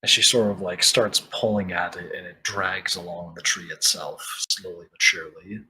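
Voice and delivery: lightly dramatic scene narration; game master narration. Acted. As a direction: set the scene for the players.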